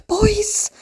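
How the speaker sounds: high, drawn-out mock swoon; re-enacted squeal of fan love; gushing outburst. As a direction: gush it slowly, hammed-up adoration. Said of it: "randomly running into the front room going".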